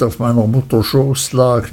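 ordinary delivery, nothing marked

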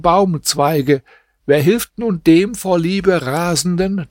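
a hint of the old woman pleading her case; lightly voiced old woman telling her tale; old woman retelling.

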